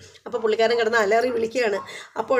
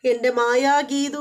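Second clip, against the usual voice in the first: put-on dreamy drunk calling; 3 semitones higher, much slower than usual. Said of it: "എന്ന് വിളിക്കുകയാണ്".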